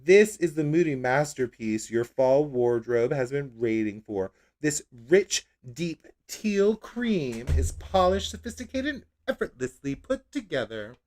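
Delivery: gushing product-copy read. Acted. Reading the product blurb in a mock ad voice. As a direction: sell it like a fashion ad. Reads product description aloud.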